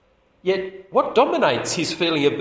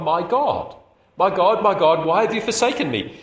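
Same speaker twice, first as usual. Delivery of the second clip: raised pleading cry; anguished cry; 4 semitones higher, 3 dB louder than usual. Retold or imitated. Preacher voicing Jesus calling to God, anguished. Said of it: "he still calls God".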